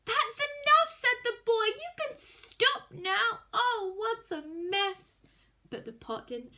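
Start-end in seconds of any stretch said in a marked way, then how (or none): 0.1-5.2 put-on worried boy. A narrator's reading. Greedy boy pleads with the pot, worried. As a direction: fret as it overflows.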